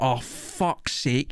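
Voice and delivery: slow, deflated groan of resignation; mock defeated. Friend caught without homework, defeated and annoyed. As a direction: imitate a friend giving up, words dragged out. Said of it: "you could just see the defeat".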